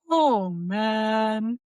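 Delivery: put-on big dopey kids'-movie monster voice; dopey friendly monster. Coach showing how a children's movie monster talks, dopey and friendly. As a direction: talk like a friendly, yawny monster. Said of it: "dopey, but friendly monster character in a children's movie".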